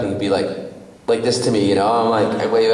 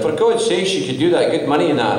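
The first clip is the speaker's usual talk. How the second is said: put-on raised-pitch Scottish accent; dad's Scottish burr, pitched up; 5 semitones higher than usual. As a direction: imitate a Scottish dad egging you on. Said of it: "That's a Scottish in him".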